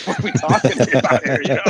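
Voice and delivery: talking through a laugh; amused, laugh breaking into the words. Real, not acted. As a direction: chuckle while saying it. Laughing at own joke.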